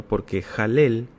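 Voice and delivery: "Jalel" said slowly with a throaty j, each syllable clear; slow careful "Jalel" as a pronunciation demo; Jalel pronounced slowly. Shown as a demonstration. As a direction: spell out "Jalel" slowly, as the word sounds. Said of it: "así como, como suena".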